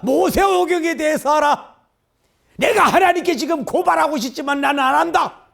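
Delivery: high, loud scolding cry; rebuking shout. Retold or imitated. Jesus rebuking the Jews, high loud scolding shout. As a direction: tear into them with rebuke. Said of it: "책망식으로 하지 않았겠어요?".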